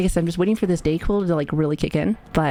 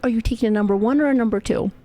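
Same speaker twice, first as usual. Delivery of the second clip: put-on talking to kids; 4 semitones higher than usual. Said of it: "Make me sound like I'm talking to the kids".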